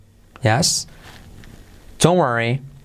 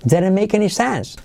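insisting; 6 semitones higher than usual. Shown as a demonstration. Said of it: "I'm telling you, insisto".

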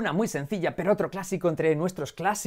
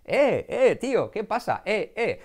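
higher, hailing "eh" to a mate; acted-out greeting, pitched up; local street greeting; 5 semitones higher, slower than usual. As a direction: call out a casual hello to a pal. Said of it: "aquí donde yo vivo saludamos".

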